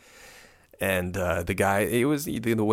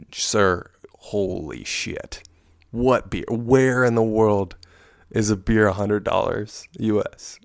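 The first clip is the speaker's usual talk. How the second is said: exasperated protest; 2 semitones higher, 5 dB louder, slower than usual. Retold or imitated. Arguing the beer price with the waiter, loud and outraged. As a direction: push back hard, slowing on the outrage. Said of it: "I'm like".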